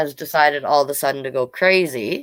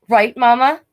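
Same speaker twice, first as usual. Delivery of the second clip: put-on pleading little girl; 7 semitones higher, 7 dB louder than usual. Sister appeals to mother.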